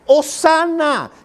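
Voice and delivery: alto, lento, hosana; grito de hosana. Acted. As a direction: clama hosana como la multitud. La gente gritaba hosana. (la multitud aclamando a Jesús, grito alargado)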